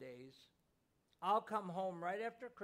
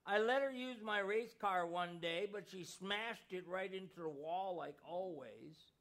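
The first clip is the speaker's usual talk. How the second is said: put-on higher, louder, tearful child's voice; choked-up boy; 4 semitones higher, 5 dB louder than usual. A narrator's reading. Boy sobbing his confession to his mother, higher and louder. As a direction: blurt it through tears like a heartbroken boy. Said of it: "the little boy choked".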